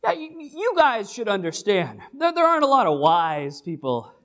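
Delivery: lightly voiced Paul chatting to the Corinthians; casual Paul. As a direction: talk to the church like old buddies. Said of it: "He's like".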